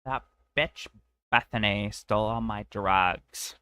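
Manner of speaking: lightly voiced bratty princess complaining; LSP-like voice. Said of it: "That sounded like, like L S P from Adventure Time".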